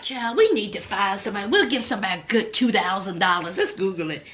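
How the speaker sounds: mock the producers' careless plan; imitating producers. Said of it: "they was like".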